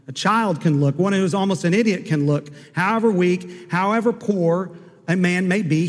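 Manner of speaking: a hint of a fervent lay preacher; preaching tailor. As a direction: plead with the crowd like a country preacher. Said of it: "He said".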